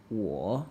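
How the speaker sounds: 我 low, sinking then lifting at the end; teacher tone. Shown as a demonstration. Correcting the learner's repeat, patient teacher tone. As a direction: dip 我 down and bring it up. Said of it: "I said teacher tone".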